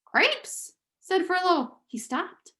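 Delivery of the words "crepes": high squeaky exclamation; startled rat squeak. Acted. Furlough spots his brother with the princess, squeaking. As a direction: squeak it out in shock.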